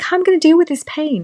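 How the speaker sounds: high, fast panicky plea; panicked. Retold or imitated. Labouring mother asking how to cope, high panicky. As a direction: rush it out in mock panic. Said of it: "I was like".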